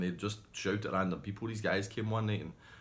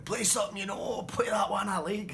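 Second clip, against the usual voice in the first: heckling shout; 13 semitones higher, 4 dB louder than usual. Retold or imitated. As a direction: bellow a request at the band. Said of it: "Gary's shouting".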